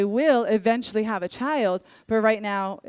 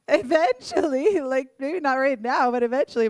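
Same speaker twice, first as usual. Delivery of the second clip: put-on laughing teen answer; 5 semitones higher, 4 dB louder than usual. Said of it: "I'm like".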